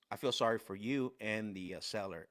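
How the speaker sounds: imitated grave, subdued reproach; really serious. Coach pitying trainee and seller, really serious. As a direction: retell a mentor's sober disappointment. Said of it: "he's really serious".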